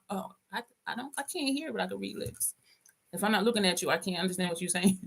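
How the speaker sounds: soft, understated deadpan excuse; straight-faced lie. Retold or imitated. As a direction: re-enact the fib quietly and earnestly. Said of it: "I lied with a straight face".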